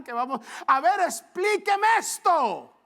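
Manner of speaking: the bitter churchgoer demanding answers from the pastor, loud and high; indignant demand. Retold or imitated. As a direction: throw the question back at the pastor. Angry churchgoer challenging the pastor.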